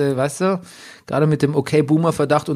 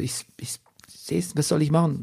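whispered resignation; 2 semitones higher, 6 dB quieter than usual. Retold or imitated. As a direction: give in with a breathy sigh. Defeated whispered reply. (resignierte, langsame Flüsterantwort)

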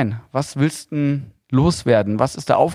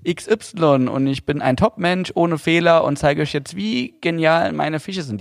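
cheesy YouTuber; 4 semitones higher, slower than usual. Retold or imitated. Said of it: "sobald die Kamera angeht".

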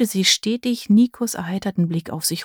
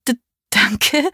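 a flustered stammer, breaking on the first sound; 5 semitones higher than usual. Acted. Leona, caught naked, thanks the guests, stammering. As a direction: trip over the thanks, embarrassed. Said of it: "stammelte sie".

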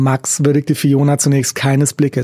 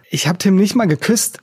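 higher-pitched, defensive protest; 6 semitones higher than usual. A narrator's reading. Girlfriend defends herself against cheating accusation, protesting. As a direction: protest your innocence, pitch raised. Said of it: "protestierte Fiona".

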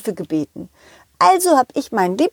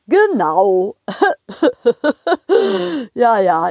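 train driver voice; slower than usual. Acted.

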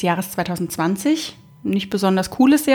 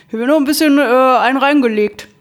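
louder restart; 3 semitones higher, 4 dB louder than usual. Real, not acted. Restarts the phrase more loudly.

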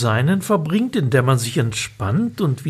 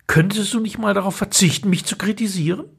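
mock retort; 5 semitones higher, faster than usual. Narrator snaps back at wife.

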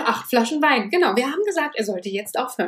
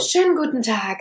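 flight attendant. Pretend. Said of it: "ich mach die Stewardess".

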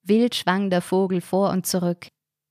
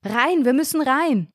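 high, urgent yell; Ronny yelling at Karina to get inside; panicked shout; 7 semitones higher than usual. A narrator's reading. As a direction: drag her inside with your voice. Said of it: "schrie Ronny".

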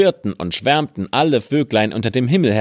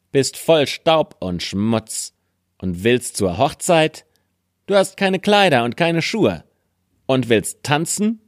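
scornful stepmother; 6 semitones higher than usual. Acted. Stiefmutter verhöhnt Aschenputtel.

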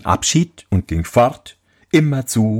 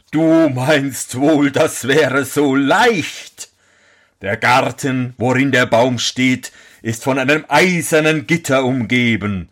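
a hint of a doubting giant; 2 semitones higher than usual. Giant warns the prince of the beasts, lightly voiced.

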